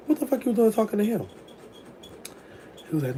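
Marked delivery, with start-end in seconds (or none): 0.1-1.3 mock indignant. Confronting son-in-law, retold.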